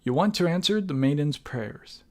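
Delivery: measured dramatic narration, phrase by phrase; deliberate storyteller delivery with pauses; story narration. A narrator's reading. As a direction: read the game's ending like a storyteller. Reads the game's closing narration.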